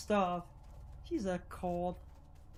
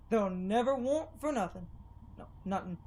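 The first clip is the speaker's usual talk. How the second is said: light Southern drawl for the townsfolk. Acted. Townsfolk cornering Lerv, in a light Southern drawl. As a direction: lean a little into a Southern accent. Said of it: "I love doing Southern drawl".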